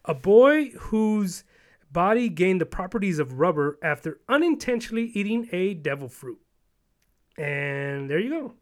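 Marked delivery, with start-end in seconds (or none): 0.0-5.0 slow dramatic read. Shown as a demonstration. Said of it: "This was funny to me".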